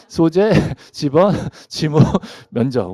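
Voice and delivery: slow, separated list with a chuckle; one by one. Shown as a demonstration. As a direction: spell it out item by item, amused. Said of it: "좀 친절하게 하나씩 얘기해 주지".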